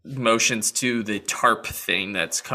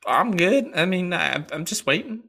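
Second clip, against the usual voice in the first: higher, eager horse insisting he's fine; a chirpy horse brushing off worry; high-voiced horse; 8 semitones higher, 4 dB louder than usual.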